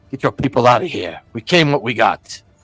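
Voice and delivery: low, deep, raptor-like bird call voice. Narrating to the listener, then voicing the Aarakocra Professor Jabatros: deep osprey-like voice. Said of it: "you hear this deep, kind of osprey like voice".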